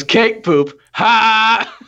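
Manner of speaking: put-on kid voice. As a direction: play the giggling toddler. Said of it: "And she goes".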